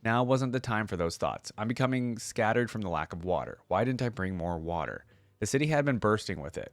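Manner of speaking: steady storyteller read of legend lore; story narration. Acted. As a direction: read it like an epic tale to viewers. Reading the short story aloud.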